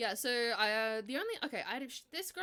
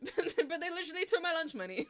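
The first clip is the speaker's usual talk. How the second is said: laughing through words; 8 semitones higher, 6 dB louder than usual. Real, not acted. Laughing at the absurd story.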